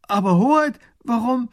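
high, loud dismayed cry; minister calling out. Acted. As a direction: protest in alarm. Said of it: "Der erste Minister ruft".

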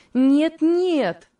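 high, loud, urgent protest; exclaiming. A narrator's reading. Ruth runs to reassure the frightened mother, exclaiming. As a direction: cry out eagerly, pitched right up. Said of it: "воскликнула Руфь".

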